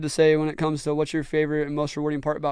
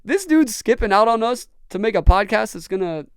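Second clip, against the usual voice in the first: louder, higher mocking jab from the friends; imagined scoffing friends; 5 semitones higher, 4 dB louder than usual. Friends mocking him for skipping out, mock scorn. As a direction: sneer at the tiny audience. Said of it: "they're probably like".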